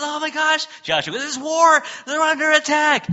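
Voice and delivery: high, loud hammed-up panic; mock alarmed shout; panicked Joshua. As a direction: blurt it like a frantic lookout. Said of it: "He goes".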